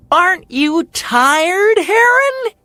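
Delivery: very high, loud bird call; called taunt. Acted. Hummingbird calling to Heron on the third day, high and loud. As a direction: shout across to him. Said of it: "he called".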